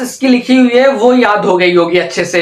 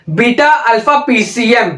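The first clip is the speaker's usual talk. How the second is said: slow repeat-after-me. Shown as a demonstration. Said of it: "बोलिए मेरे साथ".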